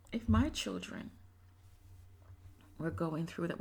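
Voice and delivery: ordinary delivery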